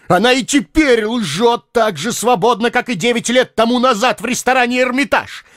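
high, pacing tirade; furious rant. A narrator's reading. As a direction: rage at her lies. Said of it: "говорил". (яростная тирада)

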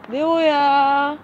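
long, drawn-out high call across the yard. Real, not acted. Calling out to the missing cat Neo, drawn-out high call. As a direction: call the name out slow and high, like searching.

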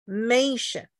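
mation as MAY-shun, MAY held; stress on M syllable. Shown as a demonstration. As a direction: lean on the first syllable of mation. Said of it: "那就是在M上面".

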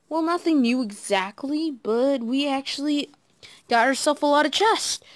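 talking with allergies, stuffy nose; stuffy-nosed from allergies. Real, not acted. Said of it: "I really got bad allergies right now".

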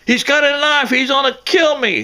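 high, frightened cry for help; retold terrified scream. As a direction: scream it like she's fleeing. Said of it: "she's screaming for her life".

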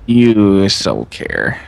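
slow, drawn-out taunt; teasing. Real, not acted. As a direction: stretch it out to tease.

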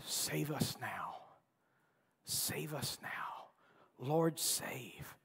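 slow, soft whispered cry to be saved; whispered plea. Retold or imitated. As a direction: breathe it out as a desperate plea. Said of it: "They're all shouting out together".

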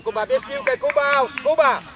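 high, loud sideline shouting. Real, not acted. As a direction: bark orders across the pitch. Coach shouting instructions.

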